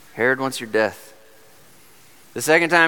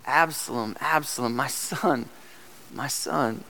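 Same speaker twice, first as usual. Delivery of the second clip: soft, slow mourning repetition; grieving cry; 6 dB quieter than usual. Retold or imitated. Preacher voicing David grieving for his son, softly mournful. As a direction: let each name fall away in grief. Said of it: "He cried out".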